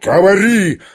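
high, slow, menacing command; frenzied roar. A narrator's reading. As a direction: roar it slowly as a father threatening a curse. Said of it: "ревел генерал в совершенном исступлении". (исступлённо, протяжно, грозно)

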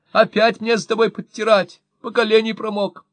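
high, loud exasperated scold; scolding shout. A narrator's reading. Wife scolding husband over the mess, loud and high. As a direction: nag him loudly about the mud. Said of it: "закричала вслед мужу Мощина".

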